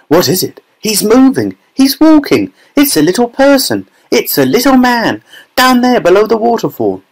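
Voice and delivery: very high mock scream, not full volume; excited scream. A narrator's reading. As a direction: squeal it like an overexcited child. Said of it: "she screamed".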